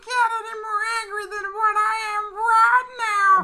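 a small voice claiming to shout; timid wrestler insisting he's yelling; mock yelling, barely loud. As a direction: yell that hardly rises. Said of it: "if I could only hear you".

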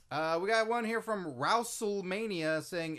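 ordinary delivery

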